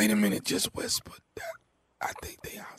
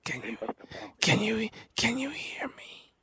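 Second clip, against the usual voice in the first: whispering. Acted. Prank call, whispering to victim.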